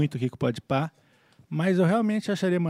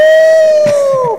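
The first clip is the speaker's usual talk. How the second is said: loud, high whoop; high falsetto whoop; 17 dB louder than usual. Acted. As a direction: let out a wild shriek. Huge yelp.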